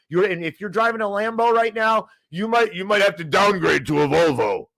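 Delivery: real worked-up warning, rising to a shout; upset outburst. Real, not acted. Host warning rich listeners about inflation, upset outburst. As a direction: get heated and push to a yell. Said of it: "I get upset sometimes about this".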